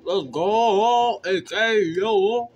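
high, loud hype yell; hype shout. Real, not acted.

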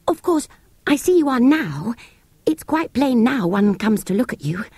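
put-on hasty child. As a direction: hurry to agree.

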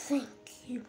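soft breathy thank you; whispered thanks. Real, not acted. Player relieved to get the block, whispered thanks.

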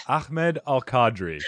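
"Ahmed Al Qadri" with the h scraped into a kh; learner's try at "Ahmed Al Qadri", Akh-med; bit of kha. Shown as a demonstration. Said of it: "you had a little bit of kha in there".

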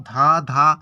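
ধা ধা split into two equal syllables; two beats. Shown as a demonstration. Teacher showing it is pronounced in two goes, syllable by syllable. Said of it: "দুইবার উচ্চারণ করব না".

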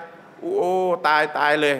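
slow, dismayed oh no; a mild acted shock at what she did; shocked gasp. Woman realizing she scolded the Prophet, slow dismay. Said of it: "เธอก็ตกใจ".

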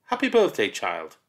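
mock sweet teacher. Teacher greets the birthday child, falsely sweet. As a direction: fake kindness before the sting.

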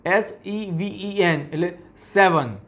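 slow spelling, then સેવન with a short e; spelled out slowly. Shown as a demonstration. Teacher spelling the word slowly for the students. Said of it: "પણ આપણે અહીંયા સેવન".

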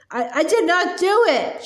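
high-pitched, protesting I did not do it; mild scream. Acted. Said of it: "she screamed".

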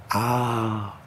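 soft, sustained "aah"; sung low wail. A narrator's reading. Age-old mothers singing to the drugged man, soft wail. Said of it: "chantèrent les mères séculaires".

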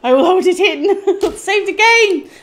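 laughing through happy near-tears; holding back tears. Real, not acted. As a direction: laugh as you fight the urge to cry. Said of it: "I'm not gonna cry".

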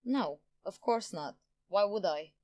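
mildly offended denial; a touch of indignation; indignant. A narrator's reading. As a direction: answer as if slightly insulted. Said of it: "she asked indignantly".

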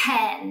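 "Pen" with the n vibrating in the nose; nasal final n. Shown as a demonstration. Teacher showing children the nasal buzz ending "Pen". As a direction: hum the end of "Pen" through the nose. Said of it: "Chúng ta sẽ đọc thấy rung ở mũi".

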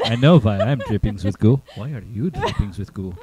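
put-on comic, vaguely Eastern European accent; Ghostbusters character's accent. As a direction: play the line in a silly Carpathian accent. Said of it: "that guy from Ghostbusters too".

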